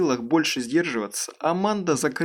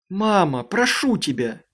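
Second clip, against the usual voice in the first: exclaiming; 5 semitones higher than usual. Acted. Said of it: "воскликнула Аманда".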